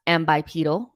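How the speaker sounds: "ambipedal" pronounced am-bye-PEE-dal, ending like needle. Shown as a demonstration. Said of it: "Ian said it's pronounced".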